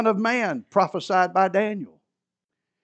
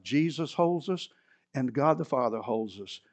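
ordinary talk

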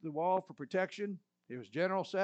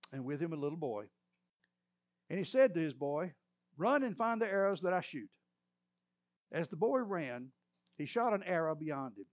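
scripture reading; 3 semitones lower than usual. Acted. Reads scripture passage aloud.

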